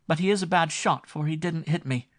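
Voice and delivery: high, loud, laughing tease; arch. A narrator's reading. Daughter archly answering her father, loud mischievous tease. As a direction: tease Papa with a sly glint. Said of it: "answered his daughter archly".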